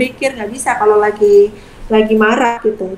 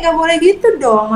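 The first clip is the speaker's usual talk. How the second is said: menegur; 5 semitones higher than usual. Shown as a demonstration. Ibu menegur anak yang merebut.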